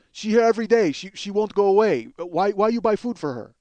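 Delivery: mock the clerk's complaint; clerk's indignant rant. Clerk complaining about homeless woman, indignant. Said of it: "And he goes".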